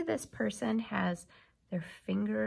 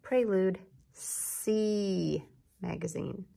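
slow careful reading; slower than usual. Shown as a demonstration. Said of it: "It says".

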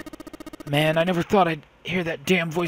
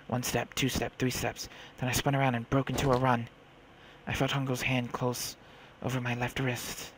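hushed, low-key storytelling; story narration; 4 semitones lower, 3 dB quieter than usual. A narrator's reading. Girl recalls her captor's smile, hushed narration. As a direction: narrate it softly and ominously.

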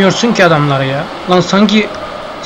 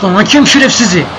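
angry at referee; 3 semitones higher than usual. Real, not acted. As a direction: rant at the referee as the counterattack comes. Yelling at the referee mid-game.

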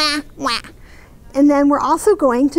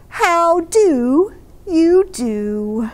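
put-on beaming baby; much slower than usual. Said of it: "the baby just beamed and said".

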